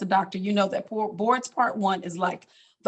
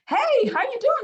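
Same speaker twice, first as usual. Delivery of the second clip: dad sounding strong again. Retold or imitated. Dad greets daughter on the phone, suddenly hearty and upbeat. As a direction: bounce the greeting up like you feel great. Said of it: "sounding like you're normal again".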